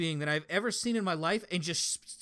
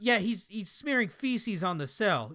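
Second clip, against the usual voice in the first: slow, higher, laughing disbelief; 5 semitones higher, 4 dB louder than usual. Retold or imitated. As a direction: laugh through the words. Guard laughing into the radio.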